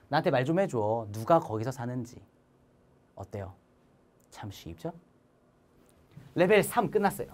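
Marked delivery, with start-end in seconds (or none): 3.1-4.9 soft catchphrase. Acted. Teacher's catchphrase after drill.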